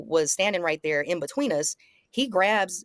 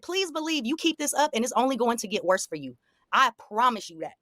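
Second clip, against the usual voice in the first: higher-pitched insistent threat; retold warning; 6 semitones higher than usual. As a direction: act out warning him off, pitched up.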